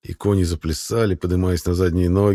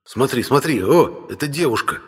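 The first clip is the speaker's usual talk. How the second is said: excited; 7 semitones higher than usual. Acted. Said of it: "возбуждённо вздыхает юноша".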